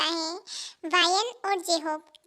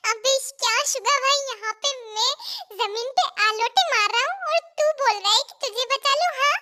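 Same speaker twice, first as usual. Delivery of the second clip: higher-pitched, exasperated comeback; exasperated retort; 5 semitones higher than usual. Acted. Brother rolling on the floor refuses rescue, exasperated. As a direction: throw the plea back, fed up. Brother snaps back at plea.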